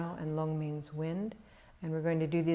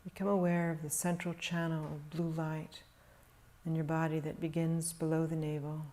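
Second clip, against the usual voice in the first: calm, measured meditation voice with long pauses; guided meditation; 3 dB quieter than usual. Real, not acted. Teacher guiding meditators to settle into stillness, calm meditation delivery. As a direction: guide them gently into stillness, leaving long silences.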